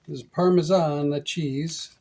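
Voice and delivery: loud mock Italian accent on Parmesan. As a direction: put on a hammy Italian accent. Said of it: "Why do I like to do an Italian accent?".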